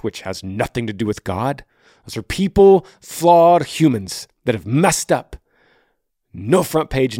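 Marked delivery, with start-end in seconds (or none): 2.0-5.4 emphatic. Real, not acted. Heated point about church people.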